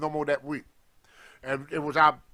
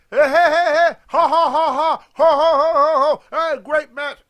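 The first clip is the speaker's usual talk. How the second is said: high, loud jeering cackle with hey, hey; mocking laughter; 9 semitones higher, 10 dB louder than usual. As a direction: imitate the guys laughing it up, taunting. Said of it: "was laughing and joking about".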